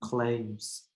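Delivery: a lightly voiced embarrassed crayon pleading; embarrassed peach crayon. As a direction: play a mortified crayon begging for help. Teacher reads peach crayon's letter.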